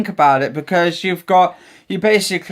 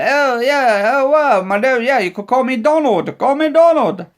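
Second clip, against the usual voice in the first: higher, silly voice as a mocked Trump; daft Trump impression; 5 semitones higher than usual. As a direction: ham up a goofy Trump. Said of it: "make a daft one of him".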